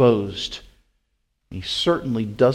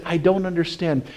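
puzzled mock quote; 6 semitones higher than usual. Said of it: "we scratch our heads and we say".

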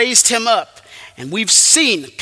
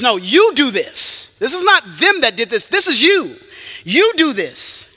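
emphatic, higher accusation; confronting the listener head-on; pointed accusation; 4 semitones higher than usual. Acted. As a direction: drive each short charge home. Acting God accusing the listener directly.

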